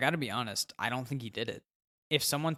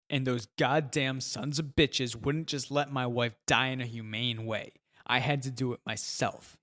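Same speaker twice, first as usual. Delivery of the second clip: put-on drunken sobbing; 4 dB louder than usual. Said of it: "he sobs".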